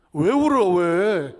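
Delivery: loud high startled cry; mock alarm. Preacher teasing the choir, loud high alarm. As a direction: burst out in playful alarm.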